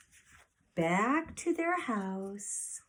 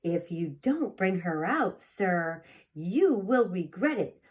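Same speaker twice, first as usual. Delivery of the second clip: dog language; 4 dB louder than usual. Acted. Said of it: "in her best dog language".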